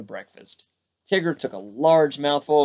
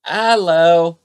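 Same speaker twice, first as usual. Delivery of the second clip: loud hello; 5 semitones higher, 11 dB louder than usual. A narrator's reading. Pooh greets at the door.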